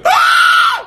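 sudden high yelp of shock; hammed-up gasp-scream; mock surprised scream. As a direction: shriek it out like someone caught off guard. Imitating the crowd's surprise.

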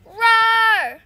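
very loud, high roar; animal roar. Pretend. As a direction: bellow like a charging animal. Roaring as an animal.

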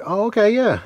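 put-on high, eager kid's yes; eager kid reply. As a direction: jump at the chance, voice up high. Kid answering grandfather eagerly.

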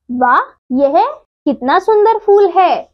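a lifted, admiring "वाह" for the flower; exclamation demo. Shown as a demonstration. Teacher shows the exclamation mark with a mildly delighted example. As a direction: read it as a pleased exclamation, voice rising on "कितना सुंदर". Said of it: "विस्मय आदि बोधक".

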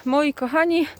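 muffled by a mask; talking behind a face mask; through a face mask. Real, not acted. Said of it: "bo mam maseczkę na twarzy". (mówi przez maseczkę)

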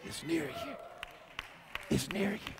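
sudden soft whisper after the climax; breathy hush for the congregation. Shown as a demonstration. Whispering God after shouted climax.

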